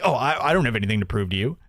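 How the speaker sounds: quick, huffy mock dismissal; frustrated brush-off. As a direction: rattle off a sulky dodge. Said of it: "gets all fl-, frustrated".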